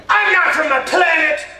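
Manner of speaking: high loud indignant protest; indignant Eddie. Retold or imitated. Eddie protesting to the mailman, high indignant loud protest. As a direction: insist you are not from a planet. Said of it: "He said".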